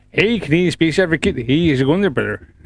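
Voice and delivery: light mock Canadian hoser accent. Streamer greeting a chat regular, mock hoser accent. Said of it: "I just went a little bit hoser".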